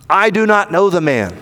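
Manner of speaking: firm denial, each word distinct; sworn denial. Acted. Peter denies Jesus to his accusers, firm sworn denial. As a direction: deny it as if under oath. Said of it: "he denies it with an oath".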